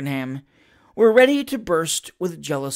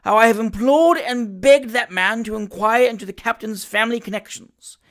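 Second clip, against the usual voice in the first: indignant complaint; 4 semitones higher, 6 dB louder than usual. A narrator's reading. Mother complains loudly.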